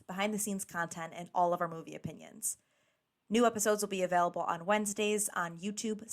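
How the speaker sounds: soft, measured sign-off read; scripted podcast outro. Real, not acted. Host thanking listeners for tuning in, scripted outro read. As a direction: read the outro evenly and quietly.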